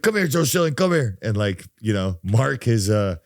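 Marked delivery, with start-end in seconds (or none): 0.0-1.2 playful summons. Retold or imitated. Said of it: "he'd be like".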